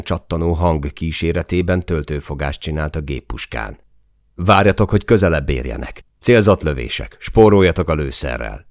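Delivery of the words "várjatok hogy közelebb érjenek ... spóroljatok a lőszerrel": raised commanding voice, a touch louder; half-shouted battle orders; yelled orders. Acted. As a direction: call out the fire discipline to the squad. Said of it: "üvöltöttem el magam".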